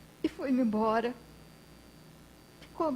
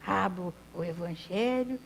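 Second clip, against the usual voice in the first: lightly voiced old man, tender and subdued; a hint of humble bedridden grandpa; gentle frail old man. Old man speaks from bed.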